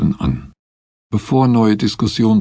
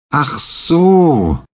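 understanding; 8 semitones higher, 4 dB louder than usual. A narrator's reading. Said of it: "meinte Fraser".

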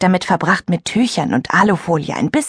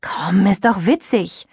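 coaxing; slower than usual. Acted. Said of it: "meinte Friederike".

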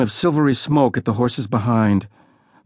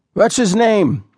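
put-on boy's question; 9 semitones higher, 4 dB louder, slower than usual. A narrator's reading. Boy asks about newcomer.

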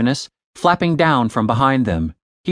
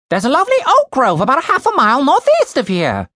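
put-on high, prim British accent; British bird voice; 12 semitones higher, 4 dB louder, faster than usual. Ravenous reporting to Julian, prim British. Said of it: "speak in a British accent".

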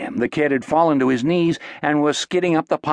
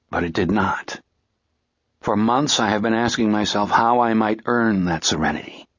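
low, measured, sombre monologue; grave, subdued reflection on revenge; grieving avenger; 5 semitones lower than usual. Acted. Figure's solemn address to a lost love.

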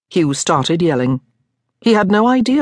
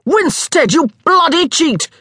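furious accusing yell, much higher; 12 semitones higher, 3 dB louder than usual. A narrator's reading. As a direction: hurl the accusation across the table. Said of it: "Hugh yelled".

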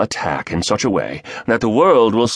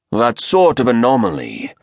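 raspy voice; 5 semitones higher, 3 dB louder than usual. Acted. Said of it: "the raspy voice asked".

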